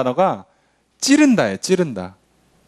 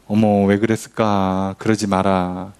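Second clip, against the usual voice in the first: soft scolding; 10 semitones lower, slower than usual. Retold or imitated. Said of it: "이렇게 한다고 뭐".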